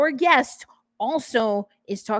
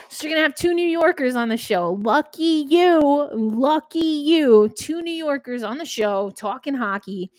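louder, higher New York accent; 4 semitones higher, 3 dB louder than usual. Real, not acted. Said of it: "my New York accent started coming out".

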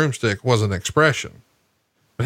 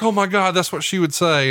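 higher, amazed gasp; mock amazement; 5 semitones higher than usual. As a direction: gush like a believer, pitched up. Audience member amazed.

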